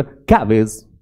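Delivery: गार्बेज with the R dropped; British silent R. Shown as a demonstration. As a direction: lose the middle R of गार्बेज, British style. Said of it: "British बोलो तो आर गायब".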